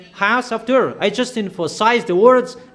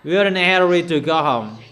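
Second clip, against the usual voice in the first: quick words through a laugh; fast, amused mock of their excuse; laughing mockery; 2 semitones lower, faster than usual. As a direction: laugh at their hurry while saying it. Mocking the hurried people.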